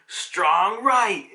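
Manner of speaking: acted-out battle shout; attack call. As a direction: call out the punch like an anime hero. Voicing Franky's attack call.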